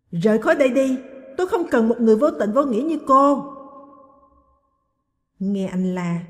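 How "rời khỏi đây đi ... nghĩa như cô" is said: loud, fast angry yelling; furious shout. A narrator's reading. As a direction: throw her out in a rage. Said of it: "anh gào lên trong phẫn nộ". (quát lên giận dữ)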